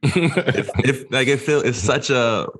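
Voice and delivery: giggling through the words, pitch up high; laughing. Real, not acted. Friend laughing while telling podcast hosts about relief. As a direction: laugh it out as relief bubbles over.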